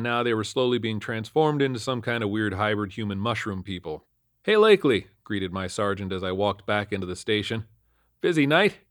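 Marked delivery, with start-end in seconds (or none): 4.4-5.1 high, loud hail; sergeant's greeting. A narrator's reading. Sergeant greets officer walking into station, hailing. 8.2-8.8 higher-pitched rising question; sergeant's small talk. A narrator's reading. Sergeant asks officer back at station, casually.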